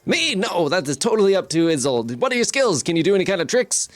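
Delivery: lively, lightly put-on showman patter; inquisitive carnival barker. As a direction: fire off eager questions like a barker. Game master plays carnival barker.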